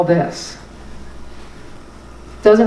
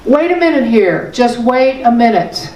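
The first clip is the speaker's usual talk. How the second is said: mantra; 2 semitones higher than usual. Shown as a demonstration. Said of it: "That's a mantra to me".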